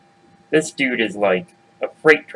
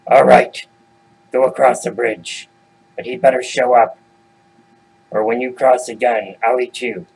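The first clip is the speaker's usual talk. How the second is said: lightly voiced threatening troll; a hint of a troll giving a warning; grudging troll. Troll lets goat pass with a threat, lightly menacing.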